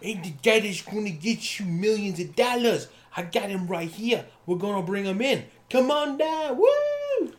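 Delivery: loud rising hype man. Pretend. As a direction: pump up the crowd like an announcer. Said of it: "like Mister Hype Man".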